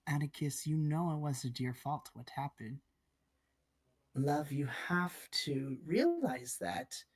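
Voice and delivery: gently empathetic, a touch of tenderness; understated reassurance, slowing at the end; sincere, unpatronizing. Acted. Aunt tells nephew it wasn't his fault, gently sincere. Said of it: "saying this not in a patronizing way".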